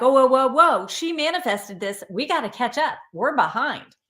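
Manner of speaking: mock-startled scramble to catch up; startled universe. The universe reacting to her manifesting, startled. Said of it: "the universe will be like".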